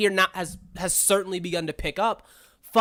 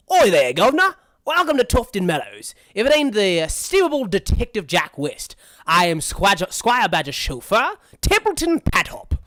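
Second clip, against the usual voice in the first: loud, jaunty "Oi, governor" servant voice; hearty frog chauffeur; 6 dB louder than usual. Acted. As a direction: hail the guest like an eager chauffeur. Voices frog chauffeur greeting a guest.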